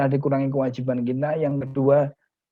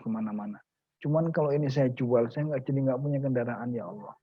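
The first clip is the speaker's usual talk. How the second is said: tearful prayer. Acted. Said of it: "Nangis dia".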